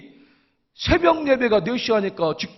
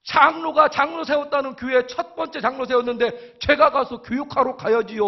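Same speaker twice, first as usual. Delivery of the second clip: higher, keen and emphatic acceptance; retold eager agreement; 6 semitones higher than usual. Elder accepting a seminar for new elders, eager and emphatic. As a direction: declare it like an obvious duty.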